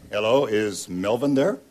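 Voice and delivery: ordinary delivery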